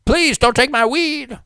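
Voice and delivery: high, slow mock plea; mock pleading. Host mocks a man pleading with police, high slow whine. Mocking stop-and-frisk victim.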